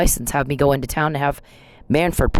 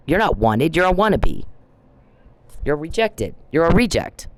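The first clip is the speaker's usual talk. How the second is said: higher, scornful jabs at the stalker; mocking taunt; 4 semitones higher than usual. Real, not acted. To the stalker who hacks her apps, a high scornful taunt. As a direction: sneer each insult up high.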